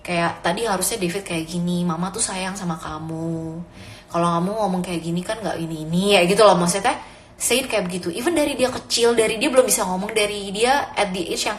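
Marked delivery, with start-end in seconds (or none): 0.4-6.0 gentle, slightly softer mother's explanation. Shown as a demonstration. Mother demonstrates soft words to her son after a scolding, gentle. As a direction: calmly show the child the right way, softly. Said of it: "say it in a soft tone".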